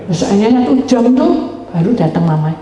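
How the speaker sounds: usual speaking voice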